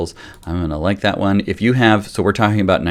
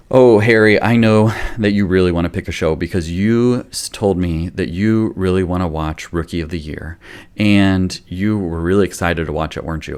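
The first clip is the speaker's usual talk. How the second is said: understanding parent. Shown as a demonstration. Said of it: "You can use this for all ages".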